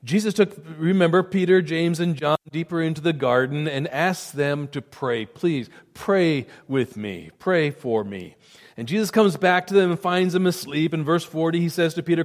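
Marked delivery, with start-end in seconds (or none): 5.3-8.4 pleading. Retold or imitated. Jesus pleading in garden.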